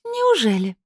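high, sneering doubt; nasty disbelief. Acted. Ilaria doubts Domra's story, high and sneering. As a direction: drip with suspicion. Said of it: "противная Илария прищурилась".

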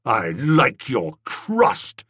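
Tuppy cries out, slow and indignant; indignant cry. Acted. Tuppy to Bertie, fuming, slow indignant cry. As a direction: drag out the outrage at Bertie's nerve. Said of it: "cried Tuppy".

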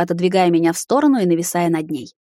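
usual speaking voice

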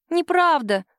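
put-on a girl's high indignant protest. A narrator's reading. Daughter cuts in on her mother, indignant. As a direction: protest like a hurt child. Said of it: "возмущённый голос девочки".

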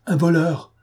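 Un voleur stated high and firm, not a question; firm affirmation. A narrator's reading. Confirm it flatly, with conviction. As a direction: Gachard insists to the marquise, firm affirmation. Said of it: "affirma monsieur Gachard".

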